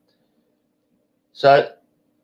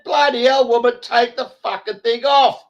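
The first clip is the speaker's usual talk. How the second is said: retold telling-off; 11 semitones higher than usual. Retold quarrel with masked woman.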